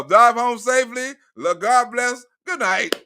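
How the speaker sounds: a hint of a Def Jam host saying goodnight; Russell Simmons. The host signing off the Def Jam show, lightly imitated. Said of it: "you sound like Russell Simmons off of Def Jam".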